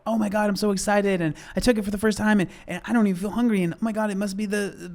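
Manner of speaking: mock excited. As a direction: gush like a new convert. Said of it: "Think back to the beginning of the video".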